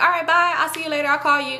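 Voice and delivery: high, singsong farewell; mock sweet goodbye. Retelling a sweet goodbye after fighting.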